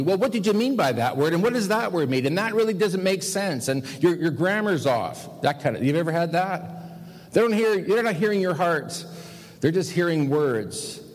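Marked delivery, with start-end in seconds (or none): 0.0-5.4 mildly mocking lawyer, pitched higher; cross-examining. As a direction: imitate a nitpicking cross-examiner firing questions. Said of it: "they start cross-examining you".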